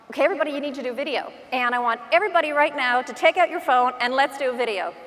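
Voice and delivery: brisk, lightly mimicked motivational coach; rally the room with quick instructions; hustling the crowd along; imitated seminar speaker.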